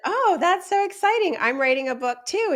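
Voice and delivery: high-pitched retold enthusiasm; excited gushing. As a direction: gush as if thrilled for a new acquaintance. Retold delighted reply to a stranger.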